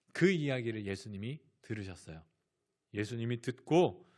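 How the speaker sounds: ordinary talk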